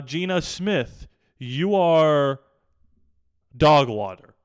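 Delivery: loud, drawn-out insult at the quarterback; angry rant. Real, not acted. Fan yelling at the quarterback, angry and loud.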